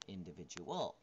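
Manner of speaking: "Individual" starting low, with a late pitch jump; shifted word stress. Shown as a demonstration. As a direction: hold back the emphasis in "Individual" until late. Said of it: "There's a different stress for these".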